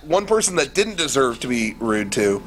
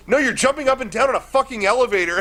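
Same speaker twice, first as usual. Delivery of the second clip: exasperated; 9 semitones higher, faster than usual. Retold or imitated. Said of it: "Eric goes".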